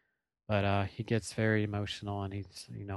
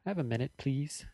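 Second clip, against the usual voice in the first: put-on light Australian accent, a bit higher; hint of an Australian woman asking; 5 semitones higher than usual. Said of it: "in an Australian accent".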